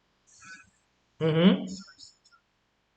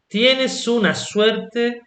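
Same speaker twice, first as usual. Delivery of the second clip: slow, high "tienes" opening "tienes una suerte"; drawn-out emphasis on "tienes"; emphatic; 6 semitones higher, much slower than usual. Shown as a demonstration. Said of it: "you put a lot of emphasis on this action".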